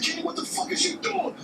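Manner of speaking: panicked retold shout. To Kenny as the car lurches, a frantic high shout.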